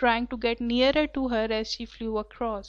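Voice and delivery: reading the passage very slowly and clearly; slow story reading. A narrator's reading. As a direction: read each word out slowly for the class. (کلاس کے لیے بہت آہستہ پڑھنا)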